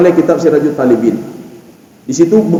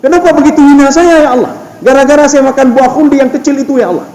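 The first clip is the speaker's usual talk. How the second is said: Adam's lament; 8 semitones higher than usual. Acted. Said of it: "Nabi Adam merasa heran".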